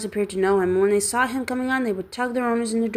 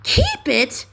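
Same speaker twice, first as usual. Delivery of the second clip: incredulous; 6 semitones higher, 4 dB louder than usual. Acted. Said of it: "repeated Scrooge's nephew".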